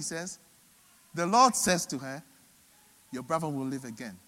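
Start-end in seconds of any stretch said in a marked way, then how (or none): 3.1-4.2 low, softer, gently assuring; reassuring. Retold or imitated. The Lord answers grieving Martha, quietly reassuring. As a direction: quietly reassure someone in pain. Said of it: "he saw her pain and he assured her".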